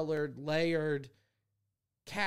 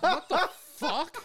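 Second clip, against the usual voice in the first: laughing disbelief; 9 semitones higher, slower than usual. Retold or imitated. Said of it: "And he was like".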